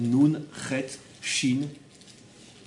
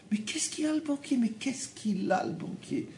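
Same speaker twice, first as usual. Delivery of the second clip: mocking disbelief; 8 semitones higher, 7 dB quieter than usual. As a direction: scoff at the banker like he's nothing. Mocking the fear of bankers.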